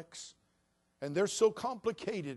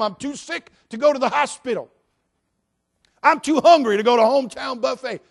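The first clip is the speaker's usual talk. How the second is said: high, loud mock whine; mock whining excuse; 7 semitones higher, 15 dB louder than usual. Mocking absurd excuses.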